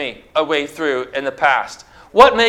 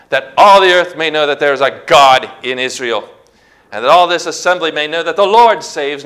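spoken with strength; 4 dB louder than usual. Acted. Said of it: "He spoke him out with strength".

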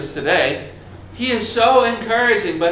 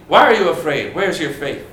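challenging; 3 semitones lower than usual. Acted. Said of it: "and say".

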